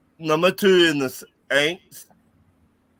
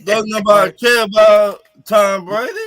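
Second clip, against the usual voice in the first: high-pitched mimicry, rising at the end; Dennis Home voice; 7 semitones higher, 3 dB louder than usual. Host mimicking a co-host about Tom Brady, high voice. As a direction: imitate a friend's high catchphrase. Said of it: "in my Dennis Home voice".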